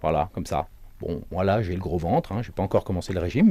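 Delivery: speaking with a belly full of air; belly pushed out. Shown as a demonstration. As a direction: talk with the belly puffed out. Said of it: "vous faites le gros ventre".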